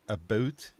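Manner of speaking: "a boot" for about; Canadian "about". Shown as a demonstration. Explaining the Canadian stereotype to the others, about said "a boot". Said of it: "things that the Americans will say".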